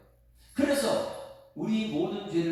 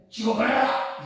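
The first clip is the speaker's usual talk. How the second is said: loud, higher barked order; angry father's shout; 5 semitones higher, 7 dB louder than usual. Retold or imitated. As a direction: bark it out like a fed-up father. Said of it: "막 화를 내요".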